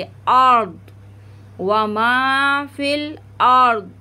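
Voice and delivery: अर्द with a full, heavy र; व मा फिल अर्द with a thick र. Shown as a demonstration. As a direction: fill out the र in अर्द. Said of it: "रा को पुर पढ़ेंगे मोटा करके".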